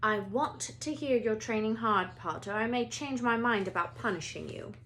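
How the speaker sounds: lightly voiced stern warning; a hint of a strict teacher; teacher warning the boy to train hard; stern McGonagall. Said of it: "peered sternly".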